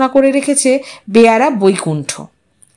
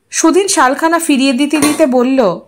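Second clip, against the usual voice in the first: usual speaking voice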